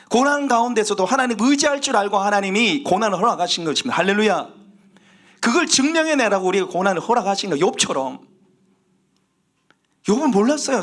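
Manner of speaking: high, urgent sermon delivery; emphatic preaching. Real, not acted. Preacher urges believers to endure like Job, emphatic. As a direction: press it on the congregation. Preacher drives home the main point.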